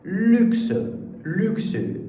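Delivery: French word luxe demo. Shown as a demonstration. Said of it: "essa palavra".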